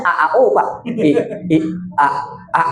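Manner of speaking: mock hesitant stammering, broken by pauses; wavering stammer. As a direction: imitate a man stuck on stuttered vowels. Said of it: "Laki-laki ini mulai goyang". (pura-pura gagap karena bimbang)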